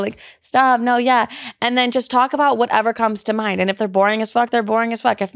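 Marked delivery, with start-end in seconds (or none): 0.4-1.3 flirty giggle. Shown as a demonstration. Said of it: "that little giggle".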